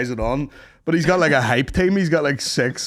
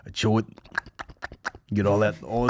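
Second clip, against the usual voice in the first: mock Italian chef; 5 semitones lower, 5 dB quieter than usual. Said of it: "He's like".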